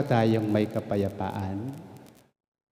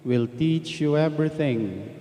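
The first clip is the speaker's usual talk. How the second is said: measured, solemn reading of scripture; gospel proclamation. Acted. Priest proclaiming the Gospel to the congregation, solemn and measured. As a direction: read the Gospel aloud to the congregation.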